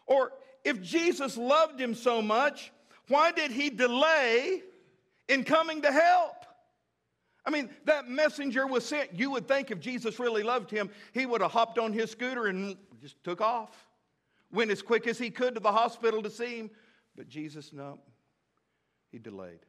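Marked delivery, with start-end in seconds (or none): 0.0-6.3 rising fervor. Real, not acted. Preacher challenging the congregation, building fervor. 17.2-19.6 sudden drop to a near hush, much lower; hushed drama. Real, not acted. Preacher pausing the story for effect, hushed.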